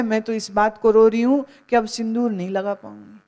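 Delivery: lightly voiced widow, fast and brisk; a hint of a vain widow, quick; mock widow lament. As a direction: rattle off her real grief, half-mocking. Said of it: "खैराती की माँ ने मुंह ऊपर किया और कहते".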